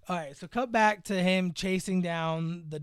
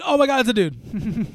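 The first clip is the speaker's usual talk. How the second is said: mock shock; 5 semitones higher, 5 dB louder than usual. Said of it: "and then all of a sudden".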